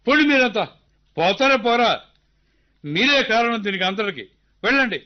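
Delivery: father angrily sending the crowd away; angry dismissal. Acted. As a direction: drive them off in a temper. Angrily driving people away.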